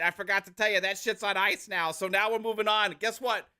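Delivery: mock salesman patter in Australian-Jersey accent. Executive announcing new games to fans in an Australian-Jersey accent. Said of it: "Australian Jersey accent".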